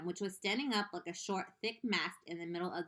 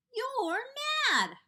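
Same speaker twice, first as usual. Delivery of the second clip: high, loud outcry; pitched-up cry of shock; cried out; 9 dB louder than usual. Acted. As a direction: cry out in disbelief. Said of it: "cried the earthworm".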